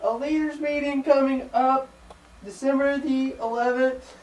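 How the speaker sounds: high, slow puppet announcer; puppet voice attempt. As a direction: try out a puppet voice slowly. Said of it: "hard to think of a puppet voice".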